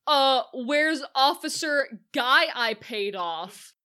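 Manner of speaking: slow, clueless voice; dumb Nick. Retold or imitated. Nick asking the cops for his bribed officer, slow and clueless. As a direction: play him as a dim-witted crook. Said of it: "like a damn idiot, Nick's like".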